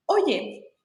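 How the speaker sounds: whispered Oye. Retold or imitated. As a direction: breathe it, hushed. Retold message opening. (susurro al leer el mensaje)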